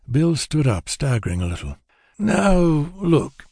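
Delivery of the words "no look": a smiling, easygoing appeal; calm them down with a grin; reasonable, smiling. A narrator's reading. Drunk Bill placating three armed robbers, smiling and reasonable. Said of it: "he said reasonably, smiling widely".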